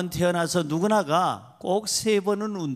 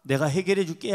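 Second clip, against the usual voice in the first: the Lord calling out; 5 dB louder than usual. Retold or imitated. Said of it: "주님이".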